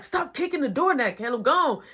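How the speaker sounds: retold irritated order; mildly mad. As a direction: tell him off with mild annoyance. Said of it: "So Marky getting mad".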